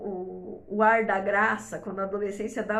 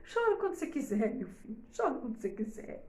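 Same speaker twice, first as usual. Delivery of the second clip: consolo carinhoso; 5 dB quieter than usual. Shown as a demonstration. Consolando o filho.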